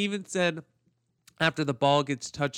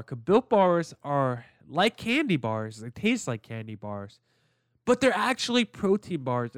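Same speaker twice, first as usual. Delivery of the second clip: upbeat sponsor read voice. Acted. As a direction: sell it like a podcast ad. Sponsor read for Built Bar.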